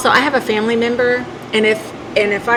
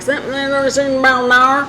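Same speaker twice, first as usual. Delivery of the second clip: mock thick country accent; 4 semitones higher, faster than usual. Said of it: "country accent was so thick".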